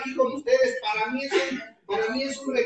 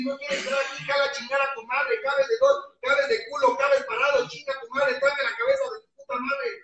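retold angry yelling. Sponsor yelling at newcomer.

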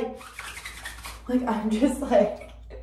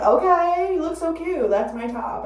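imitating cousin; 7 semitones higher than usual. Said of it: "She's just like".

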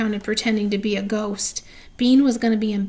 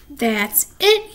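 yell; 2 semitones higher, 3 dB louder than usual. Acted. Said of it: "yelled Nancy".

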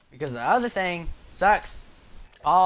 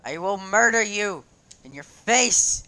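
high, loud threat slowing to a punchy end; mock threat; 4 semitones higher, 4 dB louder than usual. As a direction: playfully threaten the attacker, raising your voice. Threatens the attacker in game.

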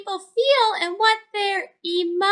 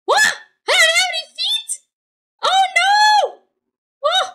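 mock alarm; 7 semitones higher, 3 dB louder than usual. Snail notices he has no feet.

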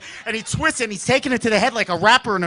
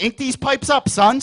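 tough-guy bravado; 4 semitones higher, 4 dB louder than usual. Retold or imitated.

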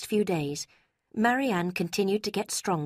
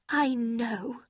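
rising, urgent mother's cry; cried out; 7 semitones higher, much slower than usual. A narrator's reading. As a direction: exclaim it, voice climbing. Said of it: "cried her mother".

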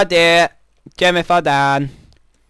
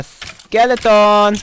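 drawn-out startled shout, higher and louder; 7 semitones higher, 8 dB louder, much slower than usual. Real, not acted. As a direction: call out the skeleton slowly and loud. Calling out the monster.

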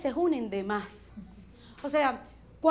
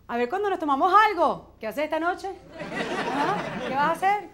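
louder, lively coaxing question; eager invitation; 3 semitones higher, 4 dB louder than usual. Acted. Friend proposes drinks tonight, eager and lively. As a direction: pitch it like a tempting night out.

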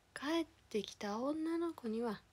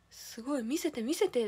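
put-on a touch of a kid begging to see, louder at the end; imitating her brother, eager; eager excitement; 3 semitones higher, 5 dB louder than usual.

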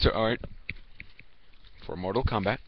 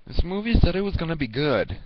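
frustrated moviegoer; 8 semitones higher than usual. Pretend. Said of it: "and I'm like".

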